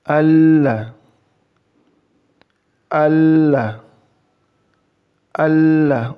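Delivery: Allah recited three times, "ll" held long and heavy; Allah with held lam. Shown as a demonstration. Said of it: "lamnya ditahan dua harakat".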